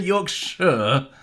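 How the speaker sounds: Yorkshire slowed down to a drawn "york-shuh"; pointedly corrected pronunciation. Shown as a demonstration. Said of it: "you'd say it the correct way".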